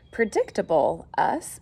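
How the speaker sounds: mock indignant, rising on us; surprised husband. Husband taken aback by his wife, mock surprise. Mr Watson voiced.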